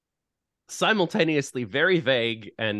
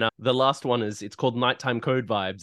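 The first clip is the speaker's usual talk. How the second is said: ordinary delivery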